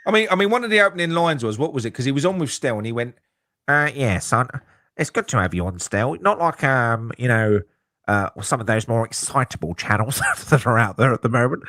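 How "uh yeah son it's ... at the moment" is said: lower, nasal mock-posh host voice; lightly nasal, patronising host sneer; nasal Whetstone impression. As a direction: send up a smug presenter through the nose. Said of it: "Nasally fuck".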